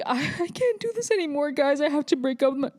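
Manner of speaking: high, put-on whine, mocking him; mocking whiny breakup voice.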